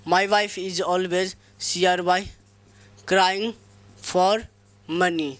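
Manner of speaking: very slow, word by word dictation. Shown as a demonstration. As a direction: dictate each word slowly to the class. Dictating sentence to class. (धीरे-धीरे बोलकर लिखवाना)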